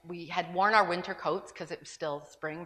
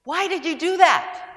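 called out higher, louder and slow; gracious call; 11 semitones higher, 15 dB louder than usual. Retold or imitated. Mother calling to the stranger who gave bread, gracious. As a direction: call after him with gentle grace. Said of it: "with all the graciousness I could muster".

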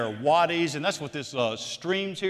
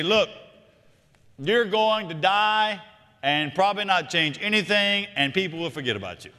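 blunt mock speech; 3 semitones higher than usual. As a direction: deliver the bad news deadpan to graduates. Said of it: "It's gonna read Ecclesiastes one four to 'em".

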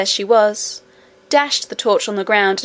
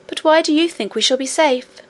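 cartoon princess; 5 semitones higher than usual. Princess Irene questioning Curdie.

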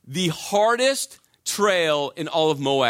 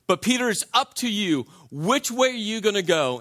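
tag; 5 semitones higher than usual. Acted. Jesus challenges Peter to choose.

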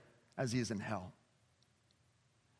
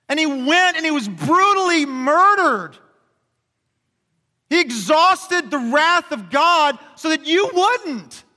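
preaching at full force; 9 semitones higher, 6 dB louder than usual. Real, not acted. Pastor preaching to the congregation about Jesus, fervent. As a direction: preach it with full force, slowing on key lines.

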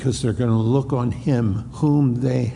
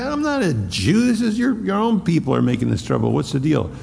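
high scornful taunt at a beaten prisoner; mocking Pilate; 4 semitones higher, faster than usual. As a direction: sneer at him, much higher. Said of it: "And he said".

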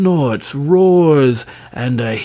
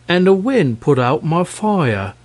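dragon voice; 6 semitones higher than usual. Acted. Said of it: "returned the dragon".

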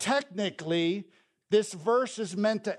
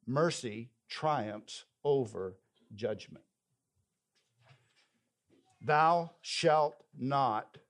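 scripture reading; 3 semitones lower than usual. Acted. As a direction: read the verses like a pulpit lesson, letting the close sink. Reads scripture passage aloud.

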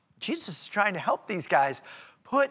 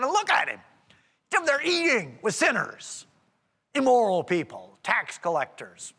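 grumbling Pharisee. Acted. Preacher voices Pharisees objecting to Jesus' company, grumbling. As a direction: build to mildly scandalized disbelief. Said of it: "began to grumble, saying".

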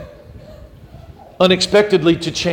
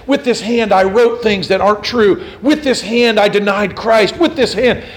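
louder, rising preacher's cry; impassioned confession; 4 semitones higher, 4 dB louder than usual. Retold or imitated. Cranmer confesses to the crowd before burning, fervent.

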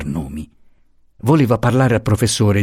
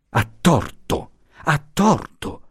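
bitter repetition; 6 semitones higher, slower than usual. Acted. Luisa thinking of Franco, slow and bitter. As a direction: repeat it with a heavy heart. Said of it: "ripeteva col cuore amaro".

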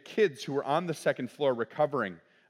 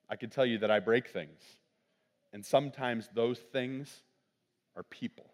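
solemn sermon confession. Acted. Preaching confession.

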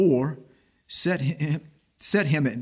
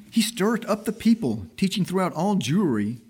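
fierce accusation; 4 semitones higher than usual. Retold or imitated. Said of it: "they were the more fierce".

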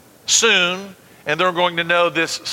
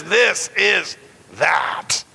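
Peter's slow ringing proclamation; much slower than usual. Acted. Peter to the crowd at Pentecost, slow ringing shout. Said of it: "And he says".

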